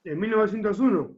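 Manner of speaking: talking with mouth full; words round a bite of sweet bread; chewing while talking. Real, not acted. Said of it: "Perdón que habla con la boca llena".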